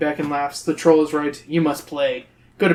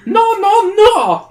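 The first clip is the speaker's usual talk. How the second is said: shrieking high, loud no; troll scream; 8 dB louder, much slower than usual. Acted. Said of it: "he screams".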